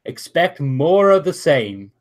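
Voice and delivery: announcer echoing the champion's words. Acted. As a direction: repeat the line for the crowd like an announcer. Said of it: "Well, you heard it, uh, here, folks".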